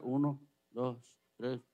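slow counting. Pretend. Counting to ten slowly.

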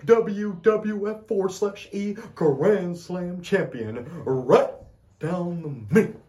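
mock Shawn promo; imitating Shawn Michaels. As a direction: hype it up like a cocky wrestler. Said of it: "Shawn is saying".

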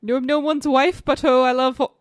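a hint of a badly done English accent; attempted English accent. Player reluctantly acting a film line for guesser, attempted English accent. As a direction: have a half-hearted go at an English accent. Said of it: "how to do this accent".

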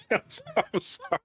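high, laughing apology; cracking up while saying sorry. Real, not acted. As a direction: apologize through helpless laughter. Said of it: "What are you laughing?".

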